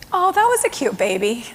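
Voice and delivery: gentle, settled remark to the clerk; calmed down. Retold or imitated. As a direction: speak evenly, the anger gone. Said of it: "he'd calmed down enough".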